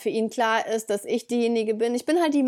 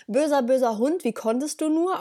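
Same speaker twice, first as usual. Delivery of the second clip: higher-pitched mock telling-off of a dog; lightly acted reproach to a naughty pet; mock scolding; 4 semitones higher than usual. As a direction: pretend to chide the dog.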